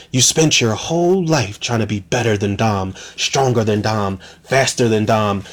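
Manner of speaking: a mild take on a cold manipulator; mocking Cypher voice. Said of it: "she's like".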